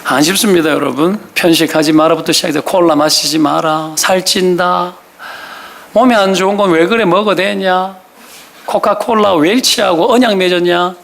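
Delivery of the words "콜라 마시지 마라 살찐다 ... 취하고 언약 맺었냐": mild droning mock scolding; parental nagging. Parent scolding over cola drinking, mildly imitated nagging. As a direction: keep the nagging rolling evenly. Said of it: "계속 잔소리 하는 거죠".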